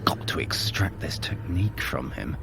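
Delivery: mumbled private aside to himself. Acted. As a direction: keep it to yourself, barely voiced. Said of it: "You mumbled".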